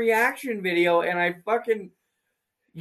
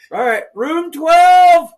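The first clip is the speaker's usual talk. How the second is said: mock asylum clerk; 9 semitones higher, 14 dB louder, much slower than usual. Mock orderly verdict.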